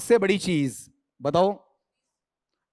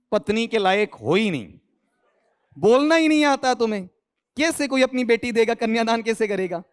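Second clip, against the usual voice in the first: mock scolding; 3 semitones higher than usual. Teasing scolding of students' pronunciation.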